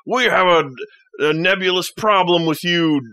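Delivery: half-acted bandit picking a fight; lightly voiced bandit. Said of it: "they're just like".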